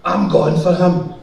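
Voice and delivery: a mild, slow mock shout of the cleaner; half-hearted imitation of her yelling; retold shout. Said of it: "I hears her shouting".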